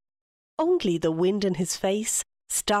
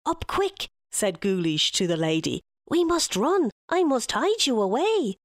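urgent Guleesh; 4 semitones higher than usual. Acted. Guleesh urging the lady to flee.

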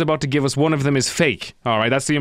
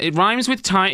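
higher-pitched, pedantic explaining voice; mock pedantic correction; 5 semitones higher, slower than usual. Host correcting Kira's pronunciation, mock pedantic. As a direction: correct her pointedly, pitched up. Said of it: "You sound great, Chris".

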